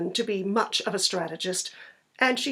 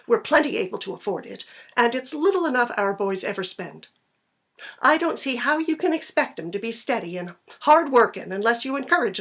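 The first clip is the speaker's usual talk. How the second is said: a hint of a forceful farm wife, louder; lightly voiced insistent wife; 4 dB louder than usual. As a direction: keep pushing, brisk and firm. Hester lectures William.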